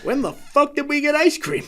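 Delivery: high film character voice. Retold or imitated. Quoting The Ringer.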